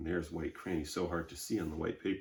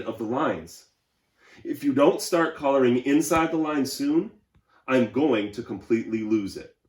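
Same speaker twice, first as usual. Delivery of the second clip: louder, higher voice of a neat crayon losing patience; a prim crayon getting fed up; fussy Purple Crayon; 4 semitones higher, 10 dB louder than usual. Acted. Reads Purple Crayon's letter aloud.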